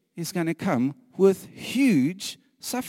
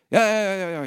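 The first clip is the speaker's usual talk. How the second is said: glib yes; 6 semitones higher, 7 dB louder, faster than usual. Retold or imitated. Mocking eager reply to God.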